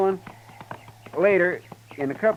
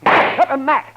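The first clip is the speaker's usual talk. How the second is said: alarmed; 9 semitones higher, 6 dB louder than usual. Acted. Doc alarmed at marshal's plan.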